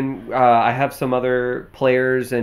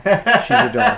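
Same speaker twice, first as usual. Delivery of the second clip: high little doll voice; cutesy doll voice; 11 semitones higher, 5 dB louder, slower than usual. Pretend. Repeats line in doll voice.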